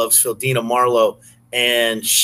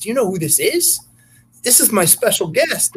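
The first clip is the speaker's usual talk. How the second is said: imitating the bouncer; 7 semitones higher than usual. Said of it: "He goes".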